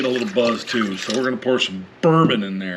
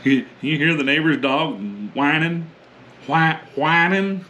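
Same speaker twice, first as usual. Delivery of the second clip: hillbilly accent. Real, not acted. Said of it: "I don't know why I'm talking like a hillbilly".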